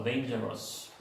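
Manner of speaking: "dangerous" ending in a wrong full "-ros"; wrong-example "dangerous" with an O in the last syllable; mispronounced dangerous. Shown as a demonstration. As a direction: mimic a learner saying "dangerous" as "dan-jer-os". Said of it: "Mal, mal pronunciado eso".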